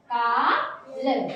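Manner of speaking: काल drawn out, sounds glided into one word; stretched blend. Shown as a demonstration. Teacher to pupil at the board, slowly modelling the blend. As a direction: draw out काल slowly without a break. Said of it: "इसे मिला के बोलो".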